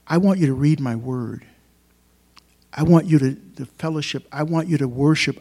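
the Lord calling his people, voiced loudly by the preacher. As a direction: preach God's words out as a loud, earnest appeal. Preacher voices God's call.

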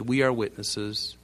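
slow, measured group response; crowd's solemn affirmation. Acted. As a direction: answer slowly, as a people in unison. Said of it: "Can you almost hear the, their voice?".

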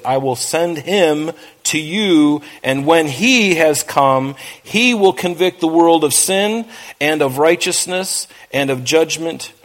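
measured, solemn Bible reading; scripture reading. Acted. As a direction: read the verses with weight, slowing on key lines. Reads scripture aloud in sermon.

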